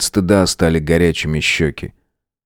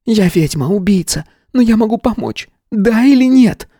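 much higher, insistent; blunt witch; 14 semitones higher than usual. A narrator's reading. Tanya bluntly demands Matvey's answer.

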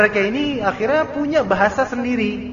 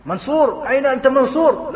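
Arab calling out; 7 semitones higher, 4 dB louder than usual. Retold or imitated.

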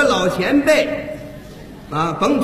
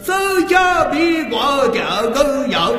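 thick-tongued, slurred 儿 sounds in 字儿尖儿; swollen tongue; 6 semitones higher than usual. Shown as a demonstration. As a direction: mangle 笔管儿 and 点儿 like a lisper. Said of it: "大舌头要说这几个字呢".

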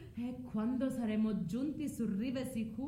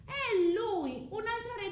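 bitter outcry; 9 semitones higher, 4 dB louder than usual. Acted. Medea's bitter outcry about her husband.

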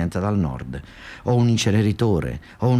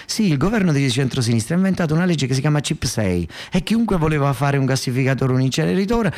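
mock indignant rant; 6 semitones higher, 3 dB louder than usual. The speaker ranting about incinerator law.

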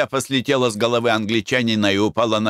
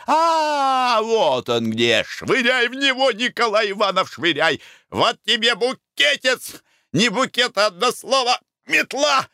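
battle shouting; 12 semitones higher than usual. Acted. Battle cry throwing bouquets.

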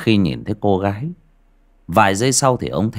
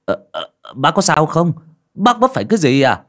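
put-on higher-pitched, mildly alarmed old villager; alarmed concern; 8 semitones higher, 4 dB louder than usual. A narrator's reading. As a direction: check on a fallen friend in alarm. Rushes to help fallen companion.

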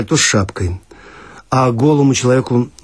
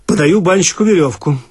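plain reading voice

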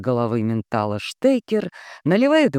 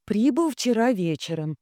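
measured reading at normal volume; steady raised dictating voice; telegram dictation; 9 semitones higher than usual. A narrator's reading. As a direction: dictate the message evenly, pitched up.

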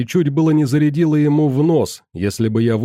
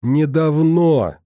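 Недавно stretched slowly, loud and higher; loud drawn-out shout; 5 semitones higher, much slower than usual. Acted. Scientist shouting back at furious Rita, loud and slow. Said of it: "закричал Ганс".

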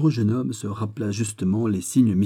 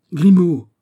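calls Grimaud, much higher and louder; urgent call; 8 semitones higher, 10 dB louder than usual. Acted. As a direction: call him sharply in alarm. Urgent dialogue, calling out. (appel pressant, bien plus fort et plus aigu)

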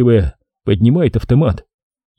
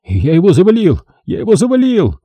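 triumphant, high-pitched cry; thrilled young soldier's boast; elated shouting; 7 semitones higher than usual. A narrator's reading. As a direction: crow over the kill, climbing higher on the repeat. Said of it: "восторженно кричит".

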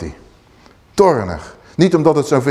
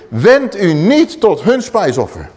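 angry Moses; 3 semitones higher, slower than usual. Acted. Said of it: "Mozes, die wordt zeer toornig".

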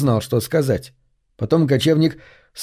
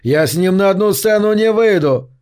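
near shout; 6 semitones higher than usual. A narrator's reading. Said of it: "Кочевник почти сорвался на крик".

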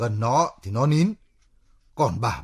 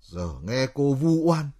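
rising, louder aggrieved protest; indignant outburst; 4 semitones higher, 4 dB louder than usual. Acted. Man protesting a slur over his lodging, indignant. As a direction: throw it back, pitch leaping up.

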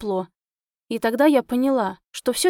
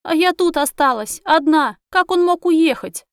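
high, louder tearful wail; tearful plea; 6 semitones higher, 5 dB louder than usual. A narrator's reading. Heroine wailing to the taxi driver about her elf, tearful. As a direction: cry out the question in despair. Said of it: "вопрошала я у таксиста".

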